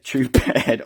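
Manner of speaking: laughing pun. Shown as a demonstration.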